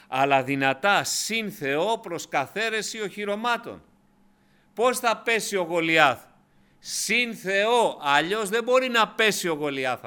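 αργά, δυνατά, με πάθος; ανάγνωση σαν κραυγή πίστης; δυνατό κήρυγμα. Acted. Preacher at full force. (κήρυγμα με έξαρση, πιο δυνατά)

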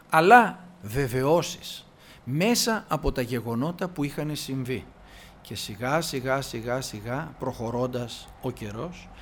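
ordinary talk, nothing marked

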